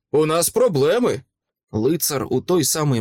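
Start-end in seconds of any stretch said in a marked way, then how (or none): 0.1-1.2 mildly raised, higher-pitched call; urgent shout. A narrator's reading. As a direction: shout the warning across a fight. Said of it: "крикнув я". (стривожений вигук)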